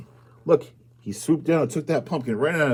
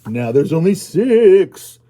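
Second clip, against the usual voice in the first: dramatic count; 5 semitones higher, 10 dB louder, slower than usual. Acted. Reading after the ghost.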